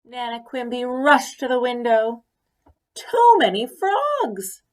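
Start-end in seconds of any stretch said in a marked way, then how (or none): 3.0-4.6 high, loud and slow wail; slow high loud despairing cry; cried out. A narrator's reading. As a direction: draw out the cry in exasperation. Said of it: "she cried".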